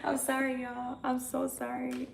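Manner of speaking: hammed-up weepy apology to the chat; mock crying apology. Streamer fake-cries sorry to the chat for lateness, mock sobbing.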